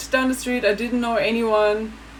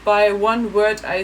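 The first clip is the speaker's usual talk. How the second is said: imitating German woman; 4 semitones higher than usual. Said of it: "And then one said".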